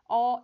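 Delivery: 어 pushed loud and tense; tense wrong 어. Shown as a demonstration. Teacher imitating the wrong tense 어. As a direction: force the 어. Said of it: "이러면 안 돼요".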